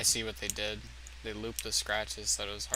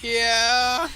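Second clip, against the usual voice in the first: mock yell; 10 semitones higher, 10 dB louder than usual. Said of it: "he just goes".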